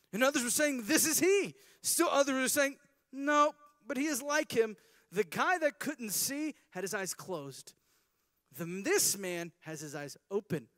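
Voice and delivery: mock the neighbors' disbelief; gossiping neighbors.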